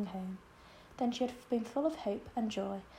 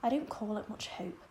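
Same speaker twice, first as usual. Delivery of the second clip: bitter. Acted. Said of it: "said Marilla bitterly".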